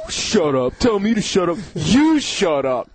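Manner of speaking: mock comeback, drawn out at the end; retold comeback. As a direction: imitate a slow, lame retort. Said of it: "and he goes".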